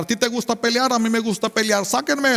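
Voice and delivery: high mock yell at the guards; imitating a brawling inmate; retold yelling. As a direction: shout it up high, itching to fight. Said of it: "Y le empezó a gritar".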